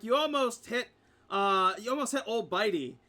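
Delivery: indignant innkeeper. Acted. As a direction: protest that the trophy nearly got hit. Innkeeper upset about his trophy.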